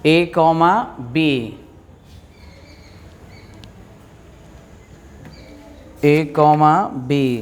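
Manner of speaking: dictating. Shown as a demonstration. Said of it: "लिखिए".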